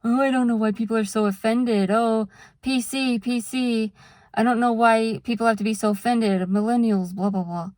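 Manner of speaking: quick, dismissive mocking tone; snarky mock voice. Mocking people who call others too offended, quick snarky tone. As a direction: sneer it like a smug meme poster. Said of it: "snarky memes saying".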